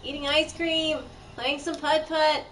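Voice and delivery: high, loud mock-grief; hammed-up loud mourning; dramatic lament. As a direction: wail about the lost shop like a tragedy. Mourning the closed shop.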